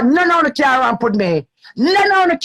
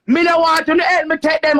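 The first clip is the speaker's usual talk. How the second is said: angry shouted refusal; 4 semitones higher than usual. Real, not acted.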